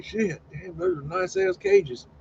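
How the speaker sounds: high, excited praise; admiring exclamation. Real, not acted. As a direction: gush over the cages. Admiring the cages.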